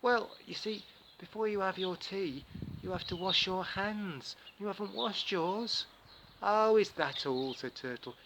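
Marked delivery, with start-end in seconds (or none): 0.0-5.9 Anansi. Acted. Anansi explains the hand-washing rule, sly and higher. 6.4-7.5 higher, louder, slow cheerful Turtle. Acted. Turtle agrees to wash his hands, cheerful and higher.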